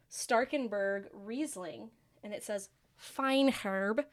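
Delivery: put-on slow, drawn-out German accent on wine names. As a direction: read the label in a German accent. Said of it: "That was my German accent".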